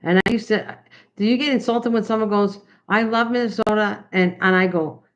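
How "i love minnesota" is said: lightly imitated Minnesota accent, a bit higher; a touch of Minnesotan accent, pitched up. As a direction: playfully mimic how Minnesotans say Minnesota. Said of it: "I like accents".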